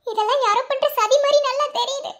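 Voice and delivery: crying. Acted. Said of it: "அழுகாதம்மா".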